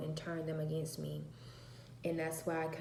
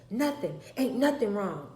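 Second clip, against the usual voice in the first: sulky denial; 3 semitones higher, 5 dB louder than usual. Retold or imitated. Daughter denying anything is wrong, sulky. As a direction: snap it out defensively.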